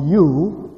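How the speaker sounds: YOU lifted high as the key word; stress on YOU. Shown as a demonstration. Preacher explaining the emphatic Hebrew word, stress on YOU. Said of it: "we try to emphasize the word".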